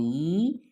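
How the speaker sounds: "ஈ" held long with rising pitch; long vowel. Shown as a demonstration. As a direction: stretch "ஈ" upward for learners. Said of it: "நெடிலா உச்சரிக்கணும்". ("ஈ" நெடிலாக, நீட்டி)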